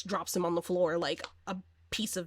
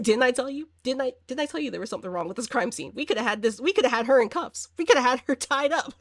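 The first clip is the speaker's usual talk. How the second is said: amused, rising exasperation as the imagined cop; mock indignant I-told-you-so; 4 semitones higher, 4 dB louder, faster than usual. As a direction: scold your partner, half laughing, building louder. Imagined cop reproaching partner, amused.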